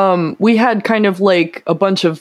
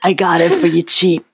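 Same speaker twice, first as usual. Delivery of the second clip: a hint of a sleazy hustler; lightly voiced trench coat peddler; shady street dealer. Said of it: "there's a guy in Times Square in his trench coat".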